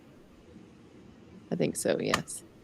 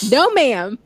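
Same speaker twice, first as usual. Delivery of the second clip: mock scolding; 6 semitones higher, 7 dB louder than usual. Mock scolding a chat comment.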